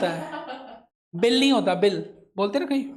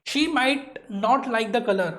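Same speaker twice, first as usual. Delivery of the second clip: slow model reading; much slower than usual. Shown as a demonstration. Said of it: "teacher models English sentence slowly".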